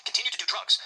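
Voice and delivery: high, loud indignant outburst; retold outburst. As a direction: spit it out in outrage. Furious complaint about drug policy.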